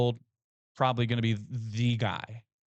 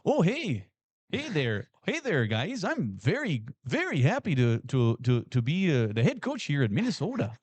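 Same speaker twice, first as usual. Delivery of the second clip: mock Minnesota accent. S0 imagines Brian Kelly at Minnesota, lightly voiced Minnesota accent. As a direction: play a friendly Minnesota nice coach. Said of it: "with a fun accent".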